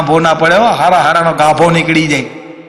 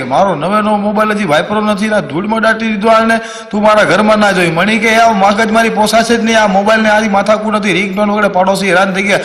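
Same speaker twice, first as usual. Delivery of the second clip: higher-pitched acted argument; quarrelling couple; 5 semitones higher than usual. Husband and wife fight over buried phone, acted quarrel. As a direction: argue back hotly in a raised pitch.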